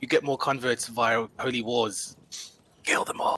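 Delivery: soft, breathy whisper. Playing a character sliding up behind the warlock to speak unseen, whispering through a trunk. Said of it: "I'm whispering through my trunk".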